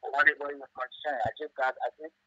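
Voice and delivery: speaking away from the phone; distant, off-mic caller; phone held away. Real, not acted. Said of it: "could you please speak into the phone a little bit because it's difficult for me to hear you".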